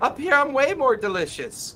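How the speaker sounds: high-pitched cat-person character voice. A player voices a silent image yelling at the dragon: tabaxi voice. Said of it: "tabaxi voice".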